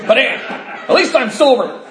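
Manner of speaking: high, slow, laughing mock voice; mocking a smug drunk. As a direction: drag it out like a proud fool. Mocking a newcomer's excuse.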